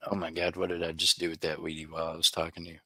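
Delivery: rushed, low-key panic; fast fretting to oneself over something mislaid; mild panic. Real, not acted. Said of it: "thought I'd lost your coin while panicking".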